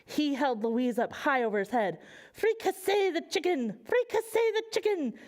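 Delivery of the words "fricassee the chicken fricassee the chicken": mild mock pirate shout. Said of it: "shouted a pirate with extremely dirty hair".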